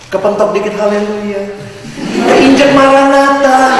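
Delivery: mocking pious exclamation. Preacher mocking a showy believer: hammed-up pious yelp. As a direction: ham up the holy yelp.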